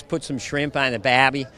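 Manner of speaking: mock Australian accent. Actor showing interviewer his Australian, attempted Aussie accent. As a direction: have a stab at an Aussie accent. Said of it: "I had it perfect".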